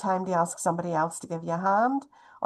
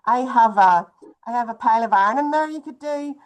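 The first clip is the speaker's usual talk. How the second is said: eager list of jobs; 4 semitones higher than usual. Retold or imitated. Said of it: "and you say".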